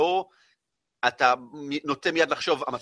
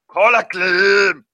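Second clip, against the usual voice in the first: excited; 5 semitones higher, 12 dB louder, much slower than usual. Acted. GM announces every missile hits.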